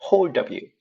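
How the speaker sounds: 'hold of you' run together as one word; linked words. Shown as a demonstration. Teacher showing how sounds stick, linked 'hold of you'. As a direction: glue 'hold of you' into hol-də-byu. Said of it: "사운드가 붙어버리죠".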